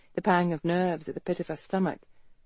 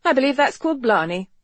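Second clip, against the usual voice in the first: crisp; 6 semitones higher, 5 dB louder than usual. Acted. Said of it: "she said crisply".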